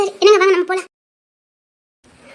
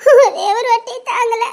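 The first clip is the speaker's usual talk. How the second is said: tearful pleading. Acted. Mother begging to hold baby.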